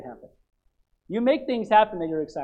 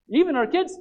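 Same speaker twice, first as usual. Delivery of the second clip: higher, questioning echo; mock disbelief, pitched up at the end; incredulous objection; 6 semitones higher than usual. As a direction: question it like a taken-aback listener. Voices the congregation's startled objection.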